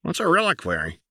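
put-on high, childlike question; high wide-eyed girl; innocent Jinx. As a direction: play dumb sweetly.

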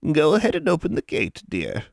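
forced sweet hag voice; through a smile. Acted. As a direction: smile through barely hidden rage. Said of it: "the words coming through a smile".

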